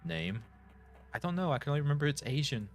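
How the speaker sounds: a hint of a flustered girl covering up; nervous Martha. Voices Martha in dialogue.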